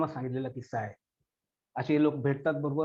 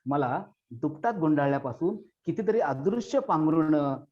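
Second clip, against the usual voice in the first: poem recitation. Acted. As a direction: recite as a grieving child's farewell. Recites poem about lost mother.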